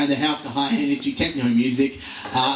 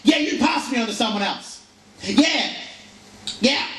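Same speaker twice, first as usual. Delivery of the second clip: high, chirpy "Yeah!" over and over; bright fake-friendly yeahs; mock cheery repeats; 10 semitones higher than usual. To each new call agent, high mock cheer. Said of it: "with the cycle being".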